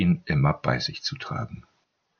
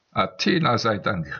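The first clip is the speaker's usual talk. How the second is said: lightly played relief, pitched higher; a theatrical thank-the-gods, a touch hammed; mock relief; 5 semitones higher than usual. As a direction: sigh it out as fake relief. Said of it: "mit gespielter Erleichterung".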